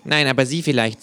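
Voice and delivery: deadpan. A narrator's reading. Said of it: "sagt das Känguru todernst".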